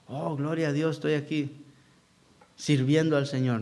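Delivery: a hint of a sanctimonious youth, hushed; mock pious youth. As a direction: imitate a self-satisfied young believer, softly. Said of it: "Imagínense qué cosa, estos jóvenes".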